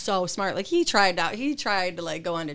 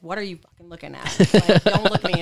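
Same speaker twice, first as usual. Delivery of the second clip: mock tough-girl snap; 9 dB louder than usual. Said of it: "I would be like".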